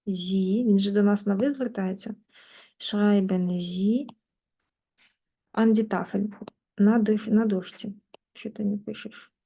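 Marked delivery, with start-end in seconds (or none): 2.8-6.3 slow model phrase. Shown as a demonstration. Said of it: "teacher models slowly".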